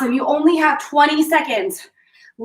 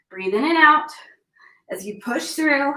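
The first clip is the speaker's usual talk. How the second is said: whispering; 3 dB quieter than usual. Real, not acted. Coach during an ab hold.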